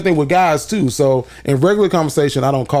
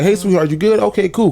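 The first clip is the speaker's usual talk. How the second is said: higher, casual and warm-hearted; friendly stage greeting; 5 semitones higher than usual. Shown as a demonstration. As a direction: make the stranger feel at ease. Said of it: "It's like".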